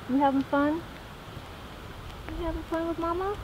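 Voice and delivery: high sing-song voice to the dog; doggy talk. Real, not acted. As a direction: coo at the dog. Talking to his dog.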